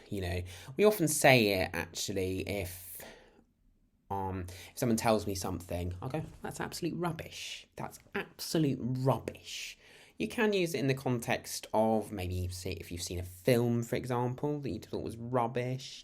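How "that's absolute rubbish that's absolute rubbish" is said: high-pitched scoffing dismissal; dismissive disbelief. Acted. Reacting to what someone tells him, high dismissive scoff. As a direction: dismiss it outright, pitch raised.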